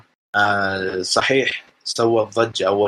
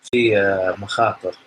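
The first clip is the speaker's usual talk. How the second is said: far from mic. Real, not acted. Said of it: "صوتك ترى يقطع شوي".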